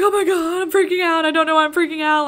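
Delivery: high, loud, frantic freak-out; acted-out panicked wail; re-enacted panic. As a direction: relive the panic, words tumbling out high and loud. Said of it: "this full-on panic attack".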